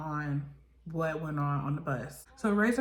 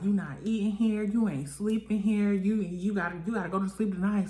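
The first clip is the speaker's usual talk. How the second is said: retold threats; 3 semitones higher than usual. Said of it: "she's just like".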